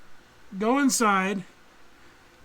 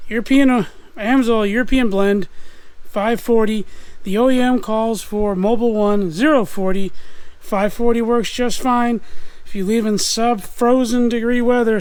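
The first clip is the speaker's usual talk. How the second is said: shouting over engine. Real, not acted. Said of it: "I'm talking over the engine".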